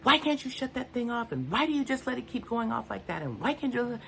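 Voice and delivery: high-pitched exasperated outburst, retold; erupting at husband. Snapping at husband over the kitchen timer, high exasperated outburst. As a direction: burst out at him, pitch way up. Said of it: "I just erupted".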